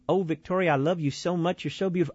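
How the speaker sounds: a light mock Texas accent, gushing sweetly; a hint of Texas accent in a mock tender gush; Joel Osteen Texas drawl. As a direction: lightly put on Texas accent, syrupy preacher to his wife. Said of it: "my impersonation of Joel Osteen".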